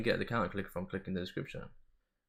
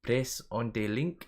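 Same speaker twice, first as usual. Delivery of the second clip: mock Spanish accent; slower than usual. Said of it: "If you say it in a Spanish accent".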